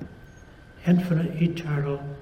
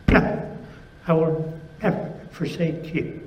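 emphatic God; 3 semitones higher than usual. Acted. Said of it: "God is very emphatic".

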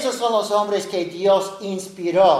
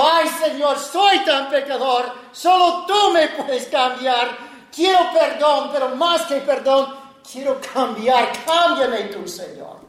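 higher, earnest plea for change; pleading prayer; 5 semitones higher than usual. Retold or imitated. A repentant sinner begging the Lord, earnest. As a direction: beg God to change you.

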